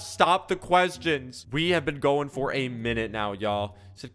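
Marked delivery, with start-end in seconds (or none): 0.0-1.4 pleading. Real, not acted. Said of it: "Oh my gosh".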